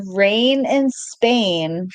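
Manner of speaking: drawn-out recital of a famous line; slow recitation. Acted. Reciting a My Fair Lady line to partner, slow recitation. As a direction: stretch each word out slowly. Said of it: "Did you ever watch My Fair Lady".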